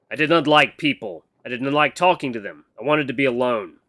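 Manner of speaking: a hint of stiff, formal speech; lightly voiced awkward mentor. Mentor admitting he is bad at talking, mildly stiff. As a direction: confess in measured, careful words, lightly in character.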